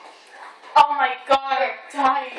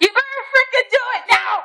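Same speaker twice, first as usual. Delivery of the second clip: laughing shout; 2 semitones higher, faster than usual. Real, not acted. Laughing dare.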